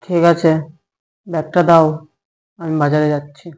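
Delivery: low, quiet giving in; grudging resignation. Acted. Husband sent to market by wife, quietly resigned. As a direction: drop pitch and volume, reluctantly agreeing.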